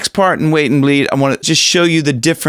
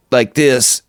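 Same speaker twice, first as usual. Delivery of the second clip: closed-off throat. Shown as a demonstration. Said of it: "almost like you're jumping underwater".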